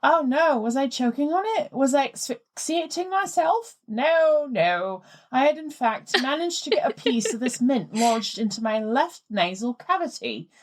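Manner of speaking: put-on reading a listener's letter in a light posh English accent; plummy English voice, lightly put on. Host reads the listener's letter to her co-host, light posh English accent. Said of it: "slaughtering your accent".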